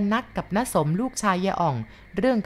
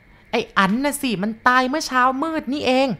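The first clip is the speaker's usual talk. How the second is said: put-on higher, louder old woman announcing; grieving grandma; 8 semitones higher, 5 dB louder than usual. Grandma tells the boy his uncle died this morning. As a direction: blurt out the death in dismay.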